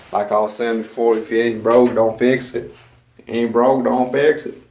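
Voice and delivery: put-on a home-made Southern accent, not quite landing. Vlogger to his camera, in a shaky put-on Southern accent. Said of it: "going for a southern accent".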